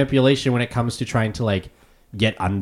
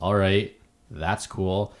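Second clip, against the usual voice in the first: curt, cold reading; 3 semitones lower, 7 dB quieter, slower than usual. Retold or imitated. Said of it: "But they take it like".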